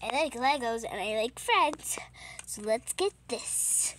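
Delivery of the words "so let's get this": whispering. Acted. Sneaking through the jewelry.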